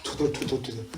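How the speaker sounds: low-volume imitation grumble; murmuring. Shown as a demonstration. Preacher explains murmuring to congregation, soft grumbling. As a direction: grumble softly under your voice. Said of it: "머머링이 뭐죠?".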